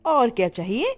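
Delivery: scolding mother-in-law. Acted. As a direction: tick off the vegetables at her bahu. Gauri scolding, louder.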